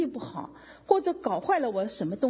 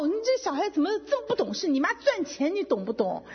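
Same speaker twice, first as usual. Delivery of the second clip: retold scolding; 5 semitones higher than usual. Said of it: "我就骂他".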